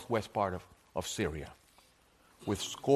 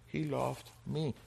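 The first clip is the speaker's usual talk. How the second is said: tender and sincere; 4 dB quieter, slower than usual. Real, not acted. Tender conclusion after the count.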